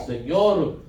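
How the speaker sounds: a mild, begging plea; pleading. Acted. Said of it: "le suplicaba diciendo".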